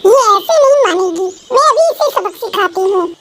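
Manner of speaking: a hint of a spiteful little girl; scheming rich girl. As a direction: threaten to teach her a lesson. (बदले की ठानती बिगड़ैल लड़की)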